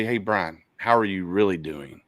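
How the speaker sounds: low, earnest check-in, stress on "really"; concerned friend. Shown as a demonstration. Concerned friend asking Brian the next hard question, earnest. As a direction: ask "really" sincerely, voice dropped. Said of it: "as a concerned friend".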